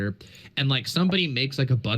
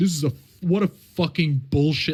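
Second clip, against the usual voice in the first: angry, fed-up, ranting outburst; 4 semitones higher than usual. Retelling a quote tweet mocking an account: Hassan impression. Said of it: "I love that Hassan impression".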